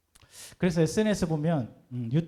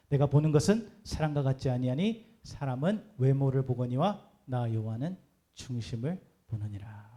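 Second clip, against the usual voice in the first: measured, understated voice of God's word; scripture reading; 2 semitones lower than usual. Acted. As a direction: read the verse out solemnly, unhurried. Reads God's words from scripture.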